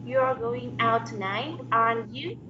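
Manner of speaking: loud practice, "you" rising at the end; student's careful rise on "aren't you"; rising tag question. Shown as a demonstration. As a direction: lift "you" as a real question. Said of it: "can you practice that?".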